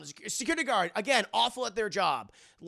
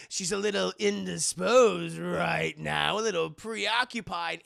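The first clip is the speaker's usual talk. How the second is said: sinister villain; 6 dB louder, slower than usual. Acted. Villain taunting.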